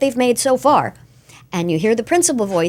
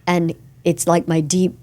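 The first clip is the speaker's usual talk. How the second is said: deep Mango voice; 5 semitones lower than usual. Acted. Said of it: "It's his Mango voice".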